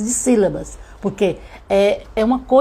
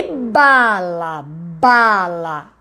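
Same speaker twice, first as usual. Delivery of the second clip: BALA drawn out very slowly, falling; word sounded out; 2 semitones lower, much slower than usual. Shown as a demonstration. Teacher helping a child hear the BA in bala, sounded out. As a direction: stretch each syllable of bala so it can be heard. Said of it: "falando o som".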